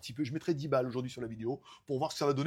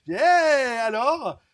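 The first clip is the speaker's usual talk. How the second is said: much higher and louder, an eager hail; cheery hello; 8 semitones higher, 10 dB louder, much slower than usual. Retold or imitated. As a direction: call out to a friend back from holiday. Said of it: "qui m'ont écrit en disant". (salut enjoué, beaucoup plus aigu et plus fort)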